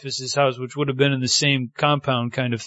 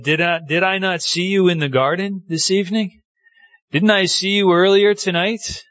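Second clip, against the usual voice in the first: higher, insistent questioning; acted accusation; 5 semitones higher than usual. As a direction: press a suspect you think you recognise. Voicing servant accusing Peter.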